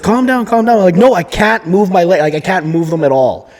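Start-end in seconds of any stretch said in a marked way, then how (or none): 0.0-0.8 higher-pitched imitation of a nurse; nurse's voice. Nurse to panicking patient, imitated in a high voice. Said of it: "She's like". 1.0-3.5 insistent mock panic, slightly raised; retold freak-out. Patient insisting to nurse about his legs, mildly panicked retelling. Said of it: "I start freaking out".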